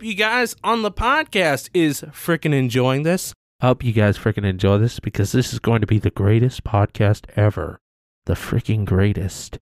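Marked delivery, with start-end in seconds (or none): 3.6-9.6 loud and low, booming hype; too loud. Real, not acted. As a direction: boom it out like a hype man. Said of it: "Am I a little bit too loud?".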